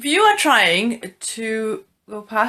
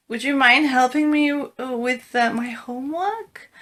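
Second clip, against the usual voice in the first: tentative request. Shown as a demonstration. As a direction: ask haltingly, wary of bothering someone busy. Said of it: "you might want to say it like that".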